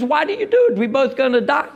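the betrayed tortoise crying out in disbelief; dying tortoise. Acted. Dying tortoise cries out to snake.

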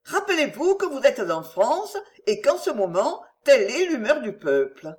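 lightly voiced noblewoman, insistent; Marguerite warning. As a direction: hold him back with a pressing reminder.

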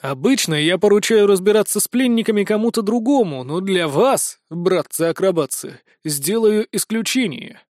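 dark lord. Acted. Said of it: "зловеще произнеся".

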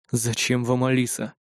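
low and hushed, wary; quiet voice. A narrator's reading. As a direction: ask it softly, on guard. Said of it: "заговорил тихим голосом". (тихим настороженным голосом)

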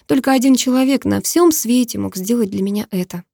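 ordinary delivery, nothing marked

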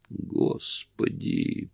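breathless unvoiced moan of the word. A narrator's reading. Annie horrified at the idea of cannibalism, moaning. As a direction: let it escape as a horrified moan. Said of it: "простонала Анни".

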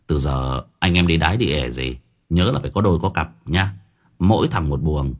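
half-joking scare, voice dropped low; mock spooky warning. Narrator frightening his roommates with a lightly spooky low warning. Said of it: "nghe tôi dọa".

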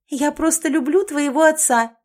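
loud, high outburst; shouting. A narrator's reading. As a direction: blurt it out in a shout. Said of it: "прокричала Элизабет".

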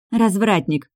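playfully hurt exclamation; mock offended. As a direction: pretend to be offended, teasing. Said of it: "притворно обиженно сказала я".

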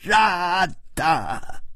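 high, shouted stammer of rage; roaring accusation. Acted. The drunk king grabs Hu Tiehua by the collar, roaring high. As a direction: bellow the accusation in his face. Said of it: "大声地吼叫着说".

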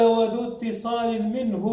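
slowly recited line of verse; verse recitation. Retold or imitated. Teacher returning to the quoted verse, slow recitation. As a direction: recite it in measured, drawn-out syllables. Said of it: "قال".

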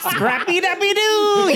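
high squeaky cartoon pup cry; Scrappy Doo voice. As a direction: shout it like a cartoon puppy. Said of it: "canonically Scrappy Doo".

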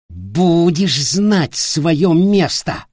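cruel shout. Acted. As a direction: pound each word down on him. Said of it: "крикнул он".

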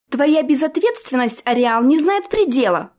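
scolding. A narrator's reading. Orti scolding the prince, sharp rebuke. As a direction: tear into him for his carelessness. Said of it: "повернулась к принцу Орти".

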